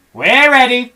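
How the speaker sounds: high loud eager cry; eager reply. Acted. Monkeys answer Mugglewump, high and eager. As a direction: answer like keen little monkeys. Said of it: "said the monkeys".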